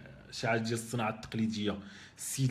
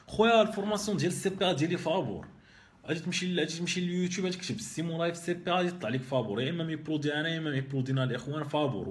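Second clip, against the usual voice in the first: excited; 5 semitones higher than usual. Real, not acted. Excited insistence it's free.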